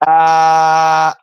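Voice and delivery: loud call across the house. Real, not acted. Son calling out to his mum in another room, loud call. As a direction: shout to be heard in the next room.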